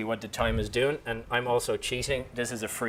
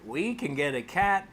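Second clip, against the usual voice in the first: put-on slow, slightly raised child's line; a hint of a daughter's voice, higher and slow; imitating a daughter; 4 semitones higher, slower than usual. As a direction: lightly voice a young daughter, drawn out. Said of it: "he becomes the daughter".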